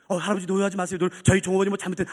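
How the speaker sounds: smooth it over as the senior manager; lightly voiced low, official apology; composed manager. Senior manager placating the customer.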